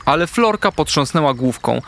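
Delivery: plain reading voice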